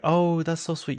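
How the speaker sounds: high, sweet congratulating voice; gushing shop girl. Retold or imitated. Shop girl congratulates Bronwyn at Baby Gap, high gushing. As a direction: coo over the baby purchase in a high voice.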